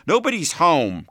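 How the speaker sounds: lightly squawked parrot imitation. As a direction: mimic a parrot's catchphrase. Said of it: "Carlene squawked".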